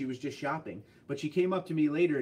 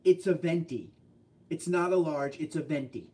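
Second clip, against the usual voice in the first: mild mock snap. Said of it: "She looks at me so mad and goes".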